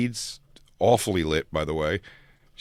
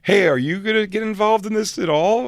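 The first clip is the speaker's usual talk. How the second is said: high mock question; 9 semitones higher than usual. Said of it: "I go".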